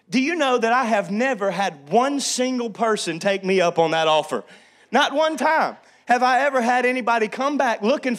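loud, driving sermon voice; full-force preaching. Real, not acted. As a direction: preach it hard to the congregation.

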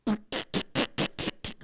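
rhythmic wheezy mock laugh; imitated laughing fit. Preacher re-enacting laughing during the offering, wheezing mock laughter. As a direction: act out breathless, bursting laughter. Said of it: "I just start laughing".

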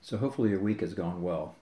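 talking while sipping a smoothie; words round a sip of smoothie; sucking thick milkshake. Real, not acted. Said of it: "I'm drinking a smoothie while I'm talking".

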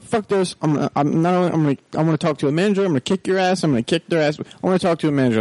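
fast hammed-up rant; mock angry customer. Customer ranting on the phone again, fast mock fury. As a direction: rattle off the threats. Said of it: "he's like".

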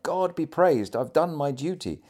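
lifted, emphatic dying man's exclamation; exclaiming. A narrator's reading. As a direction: cry it out in fervent relief. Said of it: "He often exclaimed".

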